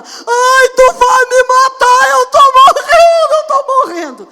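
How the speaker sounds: put-on very high, loud, slow wailing child; child screaming. Mother imitates daughter screaming during punishment: very high drawn-out wail. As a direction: shriek it like a kid being punished. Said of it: "fui corrigir ela".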